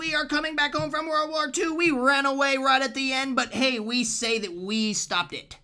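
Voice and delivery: put-on high, loud old newsreel announcer; fifties radio voice. Mocking postwar America as a sensational radio announcer. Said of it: "Why do you use that voice".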